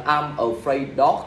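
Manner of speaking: slow, drawn-out wrong version of the sentence. Shown as a demonstration. Teacher slowly models the common mistake, then wrong usage. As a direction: drag out the mistake so students hear it. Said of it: "Mà các bạn phải là".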